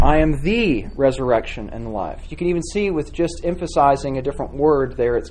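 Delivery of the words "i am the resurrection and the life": I am the resurrection and the life, with the stressed. Shown as a demonstration. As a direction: put the weight on the, not on I or am. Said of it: "Try repeating and emphasizing a different word".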